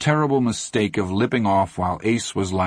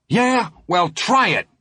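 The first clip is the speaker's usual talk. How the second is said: high, loud brayed challenge; braying dare; 12 semitones higher, 3 dB louder, slower than usual. Acted. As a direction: bray it at them. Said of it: "Teddy brayed suddenly".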